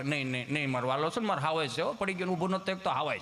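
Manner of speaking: put-on mother soothing child. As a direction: coo gently to a crying son. Mother soothing crying boy.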